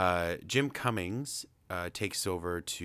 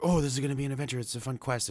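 higher, eager Owl thrilled at an adventure; imitating excited Owl; 8 semitones higher, 4 dB louder, much faster than usual. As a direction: sell the thrill of a quest, lightly. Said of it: "Owl gets all excited".

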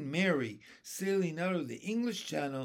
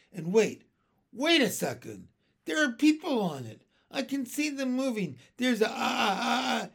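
high, loud stammer of disbelief; astonished; 6 semitones higher, 7 dB louder than usual. Acted. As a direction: build to speechless, stuttering shock. Captain astonished through the telescope.

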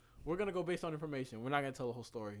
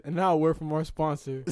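announcer voice; 2 semitones lower, 7 dB louder than usual. Pretend. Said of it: "I shoulda said".

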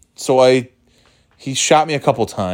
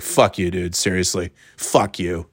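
dead serious; 2 semitones lower, 3 dB quieter than usual. Retold or imitated. Shot player telling off his killer, imitated as dead serious. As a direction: say it as a sincerely offended gamer, no shouting. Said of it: "He was so serious".

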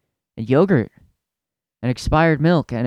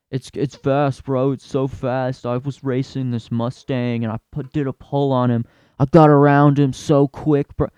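lightly voiced bro bragging about his Subaru; a hint of a boastful gearhead; mildly mocking a car bro; bragging car guy.

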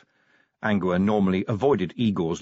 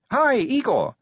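cheerful; 4 dB louder, slower than usual. A narrator's reading. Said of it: "said Sally cheerfully".

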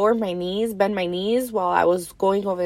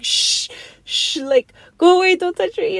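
imitating hurt people; 9 semitones higher, 3 dB louder than usual. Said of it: "videos where people get hurt".

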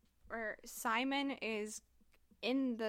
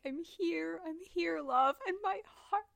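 tender Baz; 7 semitones higher, 5 dB louder than usual. Retold or imitated. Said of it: "and Baz being like".

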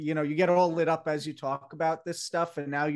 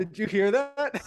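higher, louder, voice cracking on purpose; 7 semitones higher, 5 dB louder than usual. Pretend. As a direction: squeak it out like a breaking voice. Replaying his own voice crack.

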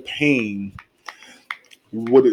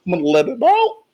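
put-on whiny child voice; 5 semitones higher, faster than usual. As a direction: wail it like a big baby. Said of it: "Because this nigga".

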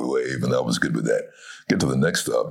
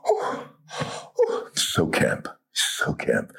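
mock camp gush; much slower than usual. Executive imitated at window.

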